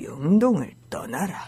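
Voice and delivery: put-on actor's voice. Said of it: "더 깔아야 돼요".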